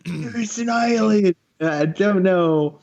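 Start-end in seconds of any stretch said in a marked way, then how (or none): 0.1-1.3 high, slow mock British gone Australian; British-turned-Australian accent. Repeating the alien joke, bad British-Australian accent. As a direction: stretch it out in botched British-Australian. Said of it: "yours comes out as Australian".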